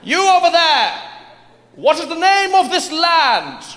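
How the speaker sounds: high, pompous British officer; lordly colonial inquiry; grand rich voice. Acted. British officer questions local.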